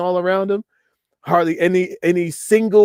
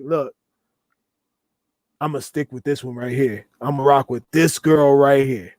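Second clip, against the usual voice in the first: put-on serious tone, lower pitch; 4 semitones lower than usual. Acting out what women hear from a man who is serious; imitating a serious tone. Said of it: "that serious tone".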